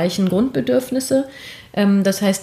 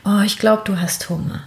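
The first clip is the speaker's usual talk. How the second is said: lower, gentle comforting of a crying infant; soothing mother to baby; 4 semitones lower than usual. Shown as a demonstration. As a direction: coo reassuringly to a hungry baby. Mother voicing soothing words to baby.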